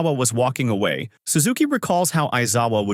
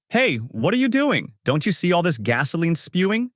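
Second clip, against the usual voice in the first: alarmed; 7 semitones higher than usual. A narrator's reading. Trapped Suzuki sees Aizawa light a cigarette, alarmed. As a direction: voice shoots up high in alarm.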